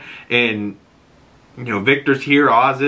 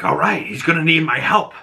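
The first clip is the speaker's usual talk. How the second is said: higher, eager rallying; mock pumped-up mom ready to help; keen, raised "let's do this"; excited; 5 semitones higher than usual. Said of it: "she's all excited".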